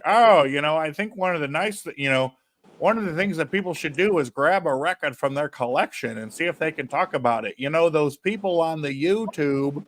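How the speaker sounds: put-on a light Virginia accent on the dealer's words. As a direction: imitate the record dealer with a hint of Virginia accent. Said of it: "this is my Virginia accent".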